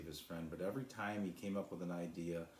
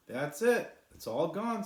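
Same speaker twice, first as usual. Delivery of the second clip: much higher, much louder shout of triumph; triumphant; 11 semitones higher, 10 dB louder than usual. A narrator's reading. Sly telling the cloud the ash is gone, loud and triumphant. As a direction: crow it in victory.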